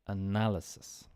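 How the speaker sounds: analysis with na stressed; analysis, leaning on na; teacher's final model of analysis, stress on na. Shown as a demonstration. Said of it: "The stress is on the na".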